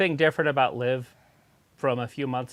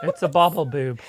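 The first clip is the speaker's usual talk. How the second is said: laughing; 4 semitones higher, 9 dB louder than usual. Real, not acted. Laughing at the toy.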